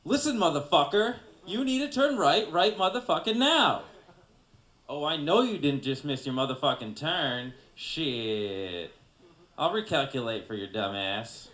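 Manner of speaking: loud, furious expletive-laden movie tough guy; hammed-up shouted outrage, easing into scorn; Sam Jackson. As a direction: chew out the driver at full volume. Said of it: "A Sam Jackson version".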